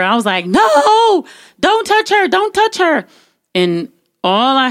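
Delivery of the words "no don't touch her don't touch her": high-pitched, drawn-out cry of protest; frantic warning. Retold or imitated. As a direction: re-enact desperately warding someone off. Re-enacts warding off the man.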